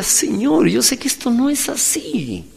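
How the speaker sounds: high-pitched imitation of a crying prayer; retold tearful plea. Preacher reliving his prayer on the park bench, mock-tearful. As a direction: wail it mildly, like a child pleading. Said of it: "yo estaba llorando y decía".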